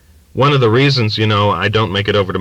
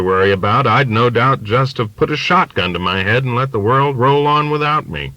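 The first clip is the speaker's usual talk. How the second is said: put-on ranting old father; 3 semitones higher than usual. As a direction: let the old man's prejudice boil up into a rant. Father lecturing in the story.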